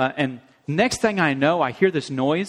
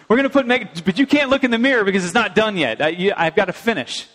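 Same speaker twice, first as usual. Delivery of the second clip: excited mom; 5 semitones higher, 3 dB louder, faster than usual. Retold or imitated. Mom excitedly preparing makeup.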